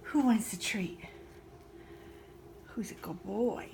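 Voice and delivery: hushed, coaxing questions to the dogs; a whisper of doggy praise; whispered pet talk. Real, not acted. Owner coaxing her dogs with treats, whispered pet talk.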